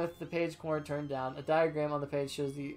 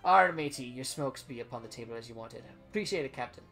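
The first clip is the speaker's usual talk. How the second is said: pirate captain voice; 3 semitones lower than usual. Acted. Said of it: "you point Captain Dirge's voice again".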